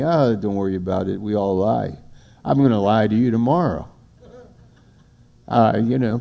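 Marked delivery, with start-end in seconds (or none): 0.0-3.9 mock dismissive liar. Preacher voices a careless liar.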